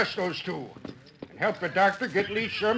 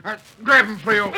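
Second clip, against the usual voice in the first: shouting; 4 semitones higher, 8 dB louder than usual. Acted. Wheeler calls for help.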